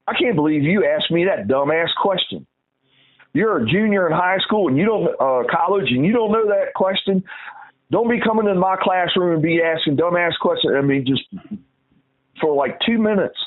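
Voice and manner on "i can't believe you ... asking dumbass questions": higher-pitched mock tirade at the student; retold berating. Professor berating a student for a question, mock angry rant. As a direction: imitate the professor chewing her out, raised pitch. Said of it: "just blasted this little girl".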